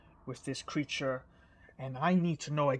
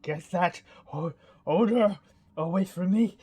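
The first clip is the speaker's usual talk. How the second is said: king recoiling, pitch rising into a raised voice; a royal shove-it-away order, louder at the end; disgusted king; 3 semitones higher, 5 dB louder than usual. Acted. King recoiling from the stinking head, disgusted. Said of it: "He's like".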